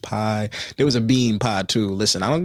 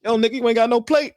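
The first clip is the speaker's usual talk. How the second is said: higher and louder, a boozy uncle greeting his nephew; drunk uncle voice; 10 semitones higher, 5 dB louder, faster than usual. Retold or imitated. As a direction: play the loud tipsy uncle at the party. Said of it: "He's like".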